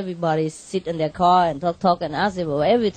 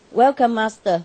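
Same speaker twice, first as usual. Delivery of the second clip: flat, unsmiling. Retold or imitated. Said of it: "Exactly like that".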